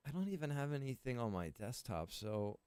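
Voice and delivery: ordinary talk, nothing marked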